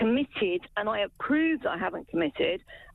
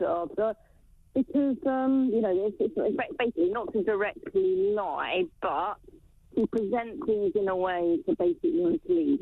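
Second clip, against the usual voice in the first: muffled, as if through a hand; talking behind a covered mic. Real, not acted. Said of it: "I don't know what you're doing with your microphone".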